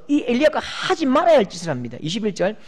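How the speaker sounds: ordinary talk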